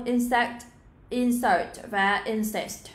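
"insect", "insert", "incest" each with a light S; light s sound. Shown as a demonstration. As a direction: model "insect, insert, incest" slowly, plain s. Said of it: "âm sờ nhẹ thôi". (đọc "insect, insert, incest" với âm sờ nhẹ)

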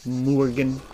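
MORGAN drawn out, savouring the first syllable; imitating gnome's pronunciation. Player echoing a gnome's word he loves, imitated pronunciation of Morgan. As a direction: say Morgan long and rounded, like the gnome. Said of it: "the way that that gnome pronounced the word Morgan".

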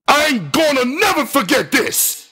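high, raging yell; wild yell. Acted. Tony yelling wildly at the narrator over the phone. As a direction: scream the threat wildly. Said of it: "he yelled wildly".

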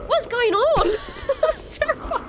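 high panicked yelling with laughs; panicked shouting. Real, not acted. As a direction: shout in real fright. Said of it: "So much shouting".

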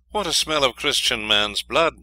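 loud gloating troll. A narrator's reading. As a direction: bellow it like a troll. Troll smells a human.

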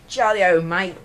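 attempted English accent slipping into Australian; botched English accent. Shown as a demonstration. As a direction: have a go at English, land on Australian. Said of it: "Oh, no, that's Australian".

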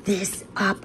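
a high, thrilled burst that slows right down; overwhelmed by what the cards show; real excitement. Real, not acted. Reader thrilled as the reading sums everything up. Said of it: "I wanna scream".

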